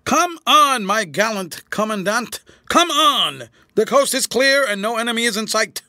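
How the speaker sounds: mocking military hail, full voice; shouting at top of voice. A narrator's reading. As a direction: bellow to the general through the gate. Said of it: "he shouted at the top of his voice".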